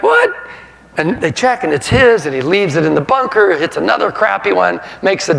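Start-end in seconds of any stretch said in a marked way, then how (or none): 0.0-0.3 shocked what. Retold or imitated. Golfers can't find the ball.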